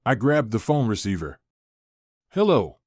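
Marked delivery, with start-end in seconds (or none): 2.3-2.8 shouting. A narrator's reading. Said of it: "I shouted into the receiver".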